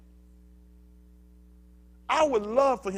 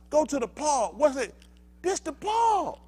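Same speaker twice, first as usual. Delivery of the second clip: parent's instruction; 10 semitones higher, 6 dB louder, slower than usual. Retold or imitated. Voicing parent telling kids.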